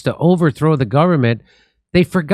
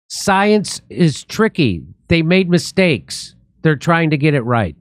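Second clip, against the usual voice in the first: sarcastic slow reading; slower than usual. Retold or imitated. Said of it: "and I'll read, quote".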